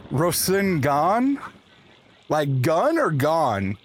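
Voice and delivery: Rosengan said slowly, syllables stretched; slow questioning Rosengan. Shown as a demonstration. Streamer puzzling over the word for chat, slow. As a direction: weigh gun against gone slowly. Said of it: "Because I'm hearing gone".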